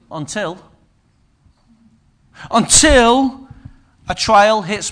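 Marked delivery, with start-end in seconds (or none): 0.1-0.6 "until" said softly with a rising lilt. Shown as a demonstration. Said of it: "repeated until". 2.5-3.5 "until" pushed out louder with a rise. Shown as a demonstration. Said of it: "repeated until".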